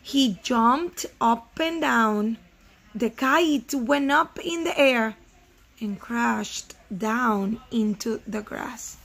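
put-on slow, measured reading to children; storybook narration with careful, spaced phrases; story read-aloud. A narrator's reading. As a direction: read each phrase out deliberately, pausing between.

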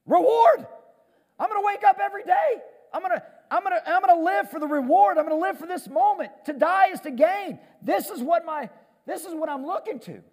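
high, loud, eager voice for Paul; excited Paul. Acted. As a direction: rush it out like a man who can't wait. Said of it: "And Paul's like".

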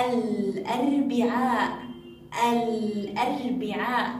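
slow الأربعاء with the L clearly sounded; audible lam. Shown as a demonstration. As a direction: draw out الأربعاء, voicing the L of the article. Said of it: "نسمع صوت اللام".

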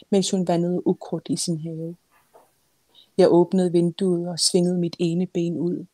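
measured literary reading; story narration. A narrator's reading. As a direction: read it as a novelist reading her own book. Author reads her novel aloud.

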